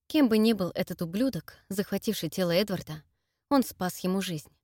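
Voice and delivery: plain reading voice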